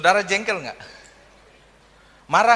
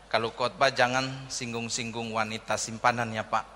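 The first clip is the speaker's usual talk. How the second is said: hushed aide; 8 semitones lower, 6 dB quieter than usual. Retold or imitated. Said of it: "ajudannya bilang begini".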